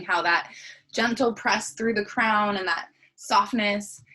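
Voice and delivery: unhurried body-scan guidance with long pauses; guided meditation. Acted. Teacher leading a morning body scan, guided meditation. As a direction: guide them gently into the breath, leaving space between phrases.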